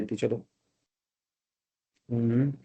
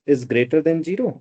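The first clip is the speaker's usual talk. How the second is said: slow dictation; much slower than usual. Shown as a demonstration. Dictating while writing on board.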